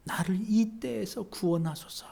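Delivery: soft, hushed prayer; humble plea. Retold or imitated. Sufferer quietly begging God for rescue, soft. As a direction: drop to a humble murmur. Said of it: "고개 숙이고 고백하는 거예요".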